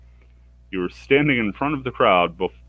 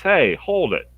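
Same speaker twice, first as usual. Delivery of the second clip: calling out to stop; 9 semitones higher, 3 dB louder than usual. Acted. Helga breaks up the fight.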